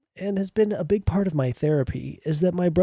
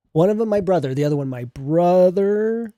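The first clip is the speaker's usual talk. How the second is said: mocking re-read; 4 semitones higher, 5 dB louder than usual. Shown as a demonstration. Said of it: "you guys don't get it?".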